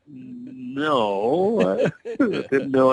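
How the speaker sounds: slow giggling words; laughing slowly. Retold or imitated. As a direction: laugh through the excuse. Laughing while quoting.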